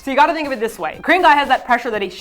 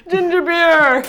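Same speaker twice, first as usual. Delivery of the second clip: put-on Jamaican accent; 7 semitones higher, 4 dB louder, much slower than usual. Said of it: "Jamaican accent".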